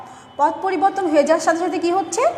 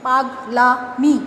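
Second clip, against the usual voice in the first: পাগলামি stretched out very slowly, last sound held; slow demo; much slower than usual. Shown as a demonstration. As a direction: draw পাগলামি out syllable by syllable. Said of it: "পাগল যোগ আমি".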